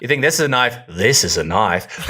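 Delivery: put-on half-hearted Crocodile Dundee Australian accent; playful Australian accent quoting the knife line; mock Australian accent. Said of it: "would you do the accent".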